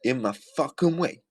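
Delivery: high, mocking copy of her complaint; mocking mimicry. Repeating her clip for listeners, mockingly high.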